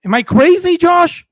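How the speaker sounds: loud, high-pitched exasperation; worked-up, incredulous shout; incredulous appeal. Real, not acted. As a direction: call out to a co-host in disbelief. Worked-up appeal to co-host after rant.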